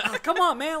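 high, loud whiny protest; loud complaint. Retold or imitated. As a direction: groan it out, hammed up. Challenged guy groans at challenge.

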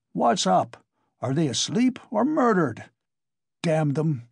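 a furious stranger bawling at a locked door; bawled in a thick voice. A narrator's reading. Angry visitor bawling through the door. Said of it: "he bawled in a thick voice".

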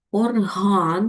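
Орган stressed on the second syllable, or-HÁN. Shown as a demonstration. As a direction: say Орган leaning on the final А. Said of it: "наголос падає на другий склад, на А".

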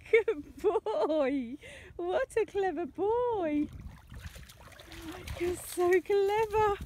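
slow doting praise. Real, not acted. Praising dog slowly.

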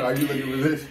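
teasing, laughing; laughing taunt. Retold or imitated. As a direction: laugh through the line. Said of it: "I'm like".

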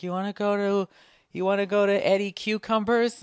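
high, light mock girlfriend voice. Host mimicking his girlfriend pitching a restaurant, high mock voice. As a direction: ask it sweetly like his girlfriend.

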